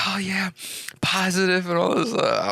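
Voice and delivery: high, put-on upbeat voice; mock positivity. Host mimicking himself being all positive, mock-cheery high voice. Acts out his fake positive self.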